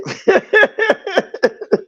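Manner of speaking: high rapid burst of laughter; amused laugh. Real, not acted. Streamer reacts to Wiseman's comment, laughing. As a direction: break into a high, rolling laugh.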